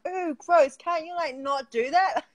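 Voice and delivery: high, squeamish mock complaint; retold disgust. Recalling seeing men spit, high mock disgust.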